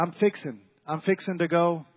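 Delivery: Arkansas "fixing" with the G dropped; Arkansas accent. Shown as a demonstration. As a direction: say "I'm fixing to go" like an Arkansas local. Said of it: "What happened to the G?".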